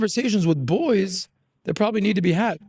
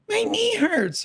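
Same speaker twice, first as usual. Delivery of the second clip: mimicking a crying boy, much higher; whiny kid voice; slower than usual. Uncle mimics nephew whining about his knee, high and whiny. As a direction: squeak it out like a hurt kid.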